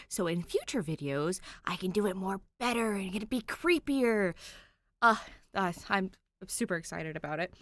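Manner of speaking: unvoiced spooky whisper; creepy whisper. Real, not acted. Narrator teasing future creepy voices, whispered. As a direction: whisper it like a ghost.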